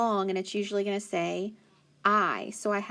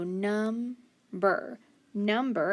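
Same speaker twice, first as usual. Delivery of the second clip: slow blended word; much slower than usual. Shown as a demonstration. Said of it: "blending the word".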